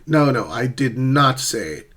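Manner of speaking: "not" stressed in an acted denial; denying. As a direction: deny it, leaning on "No" and "not". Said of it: "Meaning the speaker is denying".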